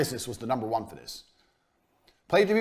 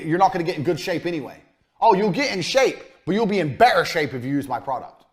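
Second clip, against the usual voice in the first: pushy sales pitch; 4 semitones higher, 6 dB louder than usual. Shown as a demonstration. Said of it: "you need to say to people".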